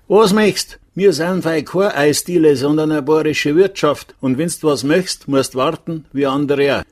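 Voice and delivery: high-pitched indignant waitress; thundering. A narrator's reading. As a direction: let rip at the guest in Bavarian. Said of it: "donnerte los". (hoch und resolut losdonnern)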